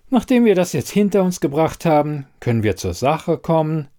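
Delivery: a hint of impatient businesslike woman; lightly voiced brisk investigator. Elida to the quizmaster, getting down to business, lightly voiced impatience.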